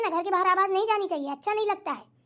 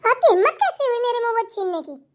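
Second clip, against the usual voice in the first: louder, indignant challenge; affronted, voice raised; indignant outburst; 3 semitones higher, 5 dB louder than usual. Acted. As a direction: snap back at someone grabbing your food. Quarrel over snatched momos.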